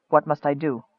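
soft, low-pitched question. A narrator's reading. Michael asking the wizard for guidance, in a low voice. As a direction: ask it low and subdued. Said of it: "he asked in a low voice".

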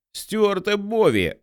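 slow, high call across the road. A narrator's reading. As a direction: hail them from behind the tree. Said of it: "гукнув він".

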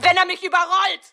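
high, loud cry of terror; panicked cry. Acted. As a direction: scream it out in fear. Echoing climax of fear. (hoher, lauter Angstschrei)

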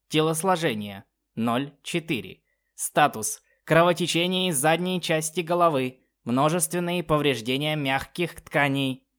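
stiff synthesized machine voice; flat robotic status readout; old speech synthesizer. Acted. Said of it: "синтезированным голосом".

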